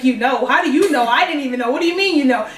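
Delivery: retold disbelief in rising bursts; mock freak-out. Teen questioning the friend who already knows, mock freak-out. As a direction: imitate being mildly freaked out. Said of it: "freaking out now".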